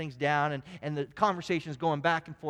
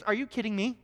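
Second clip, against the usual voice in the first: higher and louder, fed-up disbelief; exasperated wife; 7 semitones higher, 6 dB louder than usual. Retold or imitated. Wife scoffing at a basketball commentator, exasperated and loud. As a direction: throw up your hands at the commentator. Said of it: "she says".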